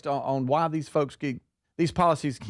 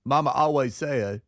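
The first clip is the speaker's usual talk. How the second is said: Forrest Gump voice. Acted. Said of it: "try to talk like Forrest Gump".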